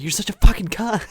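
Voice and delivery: mocking a raging friend. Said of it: "you're like".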